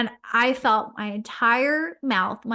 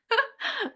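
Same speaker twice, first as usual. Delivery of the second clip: a high, teary little laugh; tearful laugh; 12 semitones higher than usual. Real, not acted. To listeners, laughing off her tears after the memory, teary. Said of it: "it makes me emotional".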